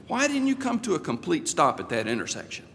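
stern question. Retold or imitated. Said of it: "they always start with that tone".

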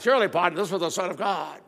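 cowboy drawl, partner stretched; playful Western cowboy accent; John Wayne drawl. Retold or imitated. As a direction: do the Duke as the centurion. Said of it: "but it sounded like".

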